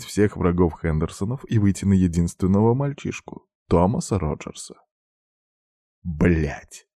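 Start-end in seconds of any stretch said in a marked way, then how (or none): 6.0-6.9 swearing. A narrator's reading. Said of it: "выругался юноша".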